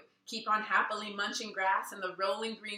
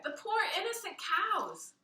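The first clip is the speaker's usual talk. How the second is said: put-on anguished child; 10 semitones higher than usual. Luke mourning the cows.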